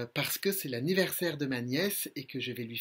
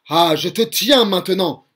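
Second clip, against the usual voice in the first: mild roar; 2 semitones higher, 12 dB louder than usual. Acted. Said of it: "rugit Stromboli d'une voix terrible".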